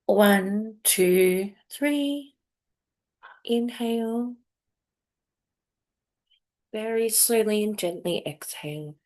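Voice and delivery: measured body-scan guidance with long pauses; guided meditation. Acted. Host guides listeners to check their bodies, meditation voice. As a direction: leave space for the listener after each prompt.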